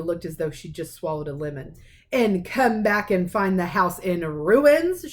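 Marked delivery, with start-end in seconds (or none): 2.1-5.1 slow, louder snarl; aunt snarling at Harry. Acted. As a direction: sneer the question slowly. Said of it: "she snarled".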